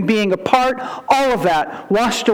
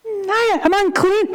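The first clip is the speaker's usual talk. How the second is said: 1 fearful confession; 10 semitones higher than usual. Retold or imitated. Woman fearfully confessing uncleanness.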